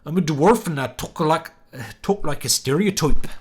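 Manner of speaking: a hint of a rural country accent; light country accent. Shown as a demonstration. Streamer showing a country-accent dwarf line, lightly done. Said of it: "he talks in a country accent".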